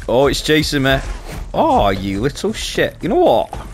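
panicked yelps while fleeing; being chased. Real, not acted. Enemy chasing player in game.

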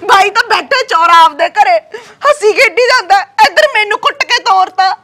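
crying while telling of the beating; tearful complaint. Acted. Beaten wife crying to her sister-in-law. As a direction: sob out the grievance.

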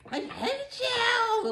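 high, slow, spiteful "I hate you"; mock hateful voice. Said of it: "they call".

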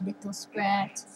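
whispered, slow. Shown as a demonstration.

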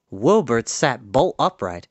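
plain reading voice

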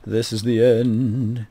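slow, solemn mock-ominous line; drawn-out doom-laden intoning; slow dramatic. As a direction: lay it on like a movie trailer. Ominous echo of "the end.

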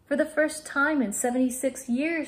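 thrilled to share the comet news; excited. A narrator's reading. Girl tells the boy about the comet, excitedly. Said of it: "she said excitedly".

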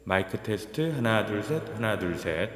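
mic test with heavy reverb; counting with echo; reverb effect. Shown as a demonstration. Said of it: "리버브 테스트".

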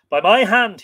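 loud, high oath; crying out. A narrator's reading. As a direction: cry it out as a vow. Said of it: "he cried".

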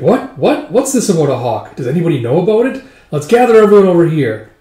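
loud eager villager, calling everyone; rally the crowd eagerly; excited calling. Retold or imitated.

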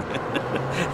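quick airy giggle; a short hushed laugh as the truck bounces; breathy laugh. Acted. Jeff laughing as he guns the truck down the road, a short airy laugh. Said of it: "He laughed and hollered".

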